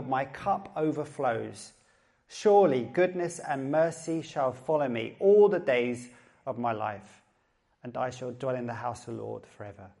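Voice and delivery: measured, unhurried psalm reading, phrase by phrase; scripture reading. Acted. Pastor reads a well-loved psalm to the congregation, measured scripture reading.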